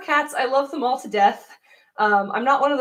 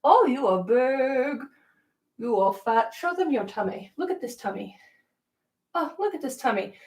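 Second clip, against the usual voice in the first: soft pet talk; 5 dB quieter than usual. Real, not acted. Cooing to son the dog.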